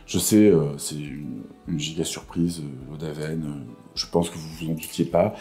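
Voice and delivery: low creaky morning voice; vocal fry. Real, not acted. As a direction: croak it low, barely awake. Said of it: "ma voix du matin".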